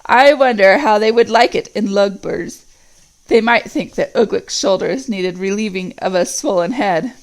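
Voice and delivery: sly, scheming orc sneer; mock Ugluk and Saruman; sneering Grishnakh. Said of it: "sneered the evil voice".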